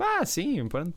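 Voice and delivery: high, bored mock reply; mock indifference. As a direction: imitate a shrug-off answer. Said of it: "Não foi tipo".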